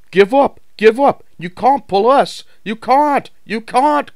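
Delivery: high, loud chanting jeer; taunting trucks. A narrator's reading. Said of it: "called the trucks".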